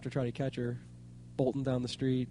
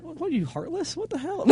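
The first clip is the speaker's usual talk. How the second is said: mock outrage; 12 semitones higher than usual. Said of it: "Teasing, I'm teasing".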